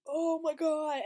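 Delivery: horrified at the scene; shocked gasp. Retold or imitated. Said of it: "It's like".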